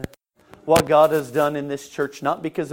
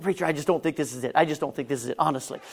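hushed doubt; 6 dB quieter, faster than usual. Retold or imitated. Retold doubts told to preacher.

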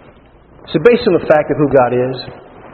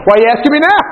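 high-pitched protest through laughter; laughing mock complaint; 12 semitones higher, 5 dB louder, much faster than usual. Believer complaining to God about timing, laughing mock protest. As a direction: play up the grievance while laughing.

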